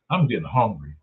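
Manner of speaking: low-pitched hungry remark; lightly voiced Adam. Adam and Eve dialogue, first speaker.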